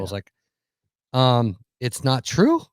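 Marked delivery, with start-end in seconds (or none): 1.1-2.6 slow, questioning mock denial; sheepish denial. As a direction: draw it out, rising into an unsure question. Guest retells sheepish denial to clerk.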